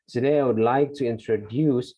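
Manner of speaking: "Today I would like to introduce" said slowly and carefully; model pronunciation. Shown as a demonstration. Teacher reading slowly to show pronunciation. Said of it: "practice the pronunciation".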